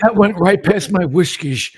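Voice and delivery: loud stiff AI bot voice; robot voice. Pretend. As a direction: announce it like a chatbot. Bot voice joke.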